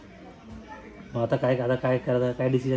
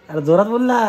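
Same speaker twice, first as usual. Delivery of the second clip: louder, a little impatient; calling louder; 6 semitones higher, 7 dB louder than usual. Acted. Prankster telling the girl on the phone to speak up, louder. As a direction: push the voice so she answers. Asks her to speak up again.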